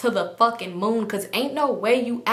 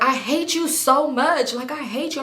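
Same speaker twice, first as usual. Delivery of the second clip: crying; 5 semitones higher than usual. Retold or imitated. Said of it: "I'm crying".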